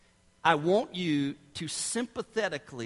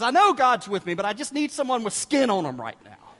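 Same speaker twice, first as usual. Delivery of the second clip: lightly voiced child protesting, louder at the start; insistent little girl; 3 semitones higher, 5 dB louder than usual. Little girl answers parents' comfort, mock insistence. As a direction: mimic a child arguing back. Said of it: "the little girl says".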